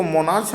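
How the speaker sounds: मोनार्च ending in "ch"; wrong reading. Shown as a demonstration. Teacher warning students off a misreading, मोनार्च with a ch ending. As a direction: say मोनार्च with final च as in "march". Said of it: "हम नहीं पढ़ेंगे".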